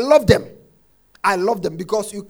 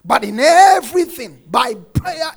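preaching shout; 3 semitones higher, 7 dB louder than usual. Real, not acted.

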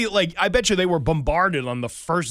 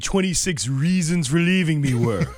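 louder hyped clickbait teaser; clickbait video narrator; 4 semitones higher, 4 dB louder than usual. Pretend. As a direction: sell it like a clickbait headline. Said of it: "talking like I'm the editor of a clickbait news site".

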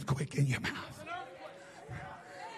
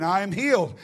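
returning voice; 2 semitones lower than usual. Retold or imitated. Woman declares it once more as her voice returns, stronger. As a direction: give it a little more voice. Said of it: "I had a little more voice".

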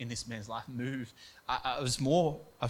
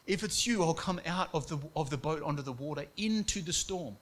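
bold eager plea; 4 semitones higher than usual. Retold or imitated. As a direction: rise up with Peter's daring. Voicing Peter's bold request.

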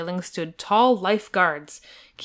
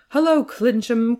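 raised, louder, higher greeting; hearty cry; 5 semitones higher, 6 dB louder than usual. A narrator's reading. Prince greeting the Earl on the crowded platform, homely cry. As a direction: call out a homely hello, pitched up. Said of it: "cried the prince, quite homely".

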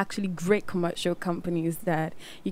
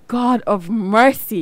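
slow, louder exclamation of astonishment; amazed reaction; 5 dB louder, slower than usual. Retold or imitated. Host recalling seeing guest's video, astonished. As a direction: draw it out in retold amazement.

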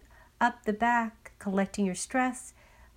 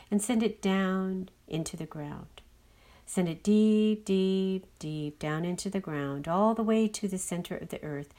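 guided meditation. Acted. Leads a grounding meditation.

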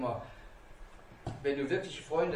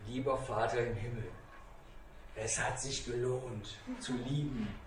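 thankful prayer; 5 semitones lower, 4 dB quieter than usual. Retold or imitated. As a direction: pray it quietly and gratefully. Speaks a thankful prayer to God.

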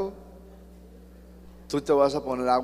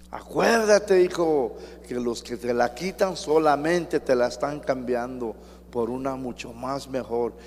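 mother calling out; 3 dB louder than usual. Retold or imitated. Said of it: "Y la mamá seguía".

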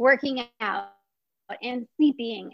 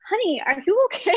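concerned whisper; 8 semitones higher, 4 dB louder, faster than usual. Retold or imitated. Shop owner asks the teary visitor if she's okay, whispered. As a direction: whisper it, a kind stranger checking on a crying girl. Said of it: "And she's just like".

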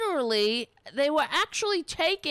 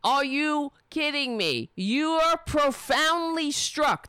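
higher-pitched, incredulous retold yell; 5 semitones higher than usual. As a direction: re-enact yelling at him, without full volume. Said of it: "'cause I was yelling".

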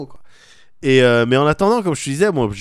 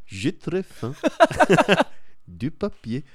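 softer lightly voiced talking bin; a hint of a hungry bin, softer; cheeky voice from trash can; 2 semitones higher, 3 dB quieter, much slower than usual. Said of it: "poubelle qui parle".

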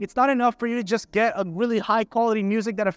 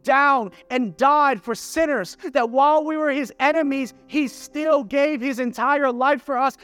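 raised-pitch, emphatic sermon delivery; impassioned preaching; 4 semitones higher than usual. Real, not acted. Preacher urging believers to praise God, impassioned preaching. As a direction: press each point home to the congregation.

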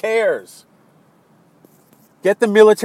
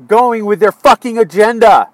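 louder, angry outburst; 6 dB louder than usual. Real, not acted. Vlogger railing at the president's agenda, angry. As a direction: spit out the frustration, louder.

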